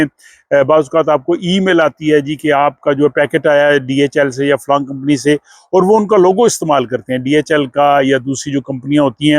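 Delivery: usual speaking voice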